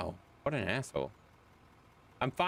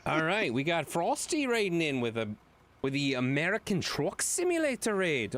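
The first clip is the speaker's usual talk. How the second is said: bad British accent. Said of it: "not even a good British accent".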